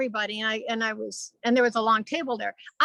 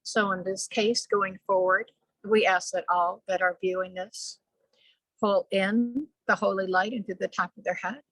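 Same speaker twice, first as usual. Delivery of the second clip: channeled spiritual message; 3 semitones lower than usual. Real, not acted. Channeler asking viewers to breathe in holy light, measured. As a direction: guide listeners with steady, even phrasing.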